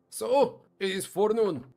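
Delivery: lightly voiced grumbling dwarf. Dwarf retells his morning.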